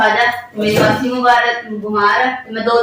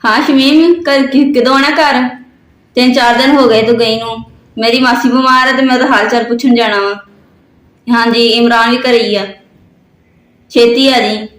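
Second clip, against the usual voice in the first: loud phone voice; 5 dB louder than usual. Acted. Loud phone call to Shamim.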